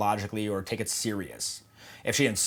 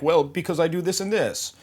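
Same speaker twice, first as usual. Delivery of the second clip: mock eager qualifying; 7 semitones higher than usual. Shown as a demonstration.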